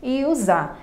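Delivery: "me" and "za" said as separate syllables; syllable division. Shown as a demonstration. Teacher splitting mesa for students, syllable division. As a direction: set "me" apart from "za", slowly. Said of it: "na divisão silábica nós vamos separar".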